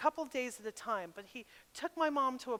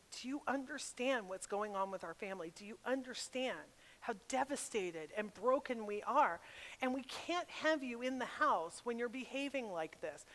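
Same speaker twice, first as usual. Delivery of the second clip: softly retold parental ultimatum; bravado; 6 dB quieter than usual. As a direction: lay down the choices firmly, without raising your voice. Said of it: "I sound like I'm talking with a lot of bravado".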